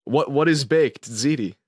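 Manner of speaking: slow, puzzled Russian waiter; lightly mimicked Russian accent. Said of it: "In a Russian accent".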